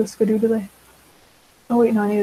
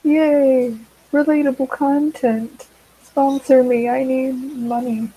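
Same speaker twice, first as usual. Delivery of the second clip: higher, louder, hammed-up celebration; mock cheer; 4 semitones higher, 4 dB louder, slower than usual. Joking to her viewers, a hammed-up excited plea. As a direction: cheer sarcastically at the camera. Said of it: "mock cheer to viewers".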